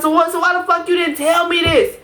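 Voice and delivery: ordinary talk, nothing marked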